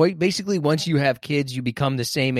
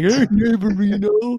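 high, dopey, corny, cheesy neighborly tone; 8 semitones higher, 5 dB louder than usual. Imitating another speaker greeting a neighbor: imitating a stupid cheesy smile. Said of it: "with that stupid cheese smile".

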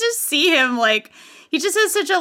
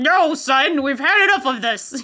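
worn-out, mildly fed-up, slightly disgruntled dad voice. Imitating a wrestler's bit, playing a disgruntled dad scolding a kid: imitating a slightly disgruntled dad. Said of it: "a slightly disgruntled dad".

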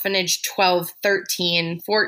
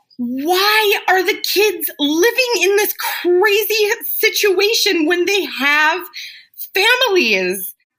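imitated scream, higher pitch; 11 semitones higher, 4 dB louder than usual. Retelling how a social worker reacted after leaving the orphanage: imitating someone screaming. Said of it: "He started screaming".

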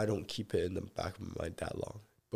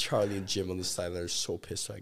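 ordinary talk, nothing marked

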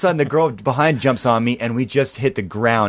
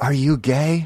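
imitated whispered voice; 2 semitones higher than usual. Retelling a girl's question during a pileup on stage: imitating a whisper. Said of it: "I hear this girl whisper in my ear".

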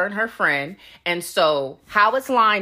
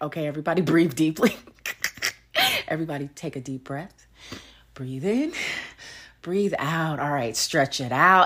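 fitness-class instructor voice, guiding tone; 4 dB quieter than usual. Retelling how a man told everybody to breathe, imitating his instructing tone. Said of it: "this is the tone he's using".

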